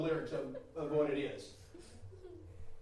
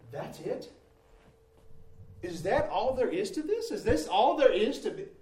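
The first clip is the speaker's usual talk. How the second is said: disappointed outcry; 5 semitones higher, 8 dB louder than usual. Retold or imitated. Retelling disappointed questions.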